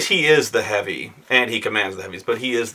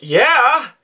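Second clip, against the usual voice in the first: eager yeah; 13 semitones higher, 4 dB louder than usual. Retold or imitated. Late player answers eagerly.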